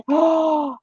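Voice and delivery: sharp gasp of surprise; surprised gasp. Real, not acted. Wondering whether a shipment arrived, a surprised gasp. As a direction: gasp as if just remembering.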